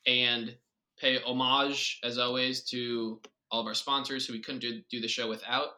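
bright segment intro; announcer voice. Acted. Podcast host announces sponsor segment.

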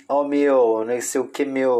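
put-on São Paulo accent. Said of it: "aquele sotaque que você só vê em filme".

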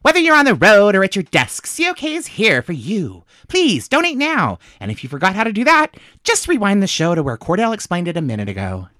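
bored, sarcastic pledge read; rolling eyes. Acted. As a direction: read it like you don't care.

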